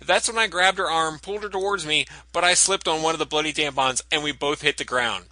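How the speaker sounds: folksy Southern security guard; Southern accent. Retold or imitated. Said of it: "also in the country singer's voice".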